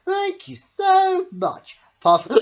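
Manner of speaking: high, loud, slow thanks; grateful gush. A narrator's reading. Smiley Shark thanking Pufferfish, high and loud.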